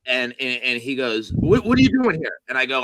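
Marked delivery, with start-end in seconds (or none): 1.3-2.4 raised-pitch challenge; mock aggressive demand. Drunk man challenging a newcomer at the bar, mock aggressive. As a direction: imitate a confrontational drunk.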